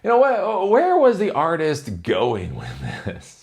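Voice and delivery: squeaky high voice, playing the clueless visitor; mock naive question. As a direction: ask it like a wide-eyed, baffled tourist. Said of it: "and I'm like".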